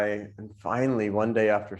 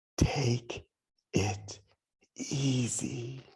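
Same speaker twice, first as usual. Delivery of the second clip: soft, secretive whisper close to the ear; 3 semitones higher, 6 dB quieter than usual. Telling how a guru gives a disciple the secret teaching; whispering. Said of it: "Then he whispers".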